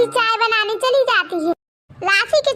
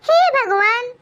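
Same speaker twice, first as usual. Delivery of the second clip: crying in pain; slower than usual. Acted. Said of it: "दर्द से चिल्लाती हुई राशि".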